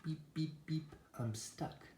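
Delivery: high-pitched little truck voice; stuck little truck. A narrator's reading. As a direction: play a small truck crying out. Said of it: "cried Little Blue Truck".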